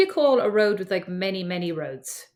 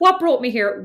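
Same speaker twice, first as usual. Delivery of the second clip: laughing; 3 semitones higher, 5 dB louder than usual. Real, not acted.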